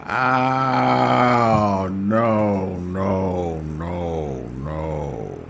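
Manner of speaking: loud laughing no, fading down each time; laughing disbelief. Real, not acted. Laughing at the clip, loud then fading. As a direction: crack up and keep saying no as it dies away.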